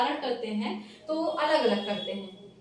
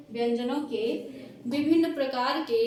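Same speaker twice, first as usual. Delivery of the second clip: dictation pace; 3 dB louder than usual. Shown as a demonstration. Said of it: "तो चलिए सबसे पहले लिखिए".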